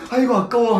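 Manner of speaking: regretful sigh. Shown as a demonstration. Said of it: "떨어뜨려가지고 ... 하는 것까지요".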